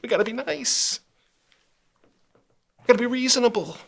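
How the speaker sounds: high, whiny mock voice of the snowflakes. Host mocking snowflakes who demand niceness, high whiny parody. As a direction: sneer it up high like a fussy scold. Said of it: "The snowflakes get so upset".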